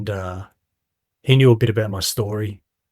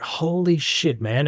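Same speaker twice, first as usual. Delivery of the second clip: stunned; 5 semitones higher, slower than usual. Retold or imitated. Speaker recalls hearing it's in here, stunned. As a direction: let the realisation land with awe. Stunned again by old man's words.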